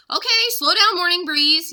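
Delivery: loud urgent yell at the elephant. Acted. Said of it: "yelled Jack".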